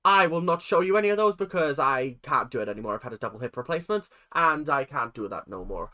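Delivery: lightly faked Irish announcer; Irish accent. Mel O'Drama announcer character, in a half-hearted Irish accent. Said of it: "Why did I decide to do an Irish character when I can't do an Irish accent?".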